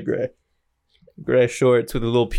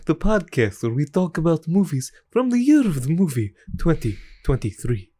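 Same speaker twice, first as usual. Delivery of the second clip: vampire voice. Acted. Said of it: "this is a little vampire voice".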